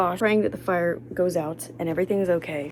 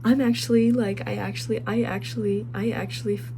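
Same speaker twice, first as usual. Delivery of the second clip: stumbling restarts on actually; stuttering; 2 semitones higher than usual. Real, not acted. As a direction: trip over the words, restarting. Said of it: "I've been stuttering so much".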